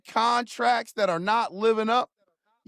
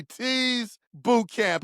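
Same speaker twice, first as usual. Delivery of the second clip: announcer voice; much slower than usual. Acted. Drawn-out segment title.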